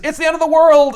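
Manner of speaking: high, loud mock doomsday declaration; loud comic-book proclamation; hammed-up doom line. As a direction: ham up the end of the world. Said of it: "this line where he says".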